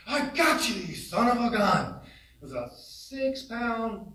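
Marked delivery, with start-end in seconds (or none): 0.1-2.0 a touch of triumphant fisherman; triumphant catch. Retold or imitated. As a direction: crow over the fish you just landed. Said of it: "and he goes".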